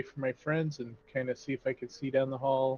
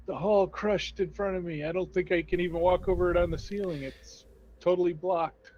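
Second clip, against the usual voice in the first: urgent report; 4 semitones higher than usual. Acted. Character reports collapse back to party.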